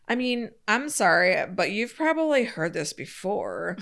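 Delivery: put-on snide, sneering mean girl. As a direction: read it like a cruel mean girl. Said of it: "you kinda read it like a mean girl".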